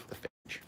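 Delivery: phage with long "ay" and hard j; trying out pronunciations. Shown as a demonstration. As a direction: say phage as "fayj", softly. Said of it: "I don't know what the hell they call it".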